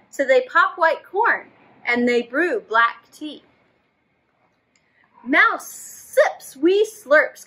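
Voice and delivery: slow, expressive storybook reading; reading to children. A narrator's reading. Teacher reading a story to children. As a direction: draw the kids into the story. Reads picture book aloud.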